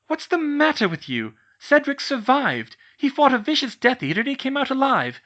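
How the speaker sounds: high, loud furious shouting; shouting at the older girl. Acted. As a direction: shout her down, outraged. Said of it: "started shouting at the older girl".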